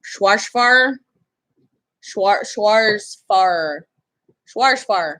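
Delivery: "Schwarzfahr" tried with an English sh-w opening; tentative pronunciation attempt. Shown as a demonstration. Puzzling over how to say an unfamiliar word, tentative pronunciation. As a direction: sound out "Schwarzfahr" carefully, starting "shwarsh". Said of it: "How do you say that?".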